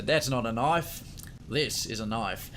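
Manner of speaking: put-on lightly done Australian accent, slow and deliberate; a British stab at an Australian accent. Streamer quoting Crocodile Dundee in an Australian accent. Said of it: "really not a good Australian accent".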